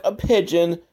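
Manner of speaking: a light sing-song picture-book reading of "a pigeon"; storybook read-aloud voice. Retold or imitated. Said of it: "just like in his storybook".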